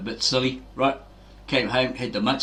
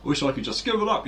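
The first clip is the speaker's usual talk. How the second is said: put-on old smoker whining; 4 semitones higher than usual. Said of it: "old guy there says".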